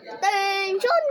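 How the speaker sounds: loud barked drill command; military command. Shown as a demonstration. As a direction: call the troops to attention. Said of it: "Sabi ko, "Attention!". (malakas na utos ng sundalo)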